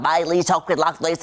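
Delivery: imitating a thick Southern accent. Host mimicking the show's little girl, in a thick Southern accent. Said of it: "her accent is so thick".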